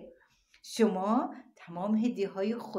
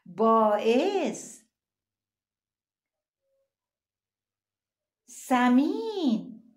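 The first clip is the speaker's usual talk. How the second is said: ثلث stretched very slowly and much louder; slow syllable reading; 4 semitones higher, 6 dB louder, much slower than usual. Shown as a demonstration. Teacher sounds out ثلث slowly and loudly for children. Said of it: "نگاه کنید بخش و صداشو".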